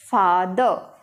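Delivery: फादर with open aa and no r; father with long aa. Shown as a demonstration. Teacher models the aa vowel in फादर. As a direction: draw out the aa in फादर. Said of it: "यहाँ पे क्या बोला हमने, आ बोला".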